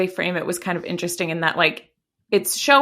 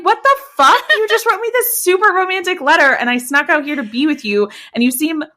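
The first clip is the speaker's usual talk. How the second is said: mock outraged shock; 5 semitones higher than usual. Kathy outraged, retold.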